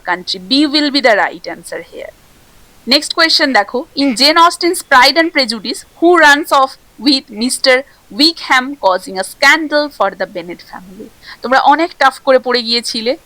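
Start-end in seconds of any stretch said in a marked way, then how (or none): 4.0-11.1 slow, deliberate reading of a quiz question; unhurried exam question read. Acted. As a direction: read the question out slowly for the class.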